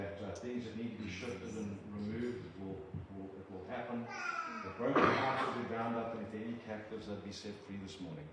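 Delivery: measured, reverent prayer to God; earnest prayer. Acted. Preacher praying over the church family, earnest prayer. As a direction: pray it humbly over the congregation.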